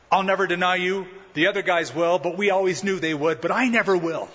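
mildly boastful assurance; self-confident. Acted. Peter promises never to deny his Lord, self-confident. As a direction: vow it with a touch of swagger. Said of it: "Peter was self-confident".

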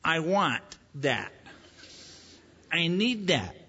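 put-on slow whiny toddler demand, with a laugh. Preacher imitates himself as a toddler wanting things. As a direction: whine it like a greedy toddler. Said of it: "I became a toddler".

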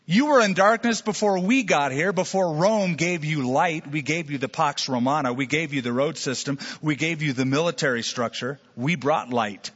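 a touch of the proud Roman laughing you off; mocking Roman leaders. Preacher voicing Rome's leaders scoffing at the idea, mildly mocking. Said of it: "They'd laugh at you and say".

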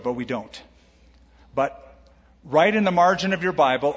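ordinary delivery

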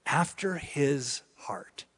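whisper. Real, not acted. Savouring a loved phrase.

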